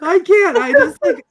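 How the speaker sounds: high, breathless with laughter; can barely speak for laughing. Real, not acted. Laughing reaction to the quote.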